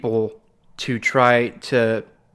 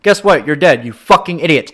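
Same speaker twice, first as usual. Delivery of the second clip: real exasperated outburst, higher and louder; 3 semitones higher, 7 dB louder than usual. Real, not acted. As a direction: guess what thrown out higher and louder. Ranting about science deniers.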